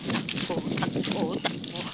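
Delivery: breathless, half-whispered chant; panting out each takbo; while running. Real, not acted. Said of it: "Takbo na naman".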